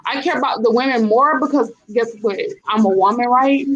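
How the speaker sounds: fiery trash-talk promo; wrestling promo. Pretend. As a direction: call out a rival like a heel wrestler. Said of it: "I'm about to cut a promo".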